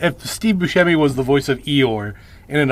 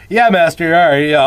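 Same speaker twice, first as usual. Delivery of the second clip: a higher, louder casual reply before remembering the act; quick, raised, offhand henchman imitation; forgetful servant, usual voice; 3 semitones higher, 5 dB louder than usual. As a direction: casually answer the boss, lightly imitating an unguarded Igor. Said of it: "he has to remind himself to do that".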